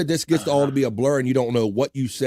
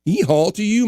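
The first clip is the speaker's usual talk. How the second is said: donkey bray; 9 semitones higher, 3 dB louder than usual. Pretend. Braying greeting to Donkey.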